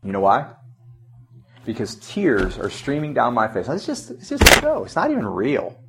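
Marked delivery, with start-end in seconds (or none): 3.7-5.8 self-reassurance. Retold or imitated. Tearful self-talk while watching a show.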